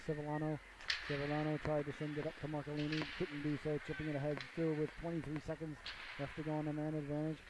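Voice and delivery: steady hockey commentator call; play-by-play. Acted. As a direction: narrate each pass like live radio.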